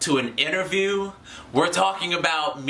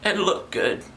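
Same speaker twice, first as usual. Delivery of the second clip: choked, voice dropping out; getting emotional; 2 semitones higher than usual. Real, not acted. Host just wants viewers to groom themselves, choked with emotion. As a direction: plead as if overcome, then apologise almost voicelessly. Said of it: "I'm getting a little emotional".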